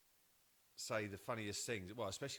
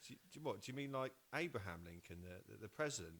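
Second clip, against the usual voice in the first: incredulous; 4 semitones higher, faster than usual. Retold or imitated. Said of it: "I was like".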